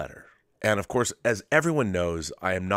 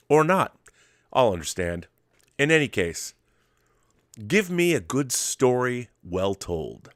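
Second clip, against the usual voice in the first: measured, slightly raised letter read; reading a letter aloud. Acted. Reading a viewer's letter live on the show, with flair. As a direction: present the letter with some flair.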